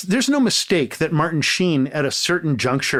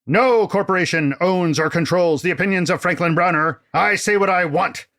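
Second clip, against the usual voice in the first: pompous Canadian critic voice, lightly put on; grand, self-important opening address to the listeners; a touch of a bombastic exiled film critic; Franklin Browner. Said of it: "rebuttal by noted Canadian film critic Franklin Browner".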